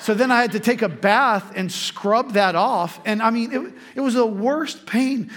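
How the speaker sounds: laughing as he tells it; laughing through it. Real, not acted. Pastor laughing while recalling the painful scrub. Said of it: "laughing while retelling pain".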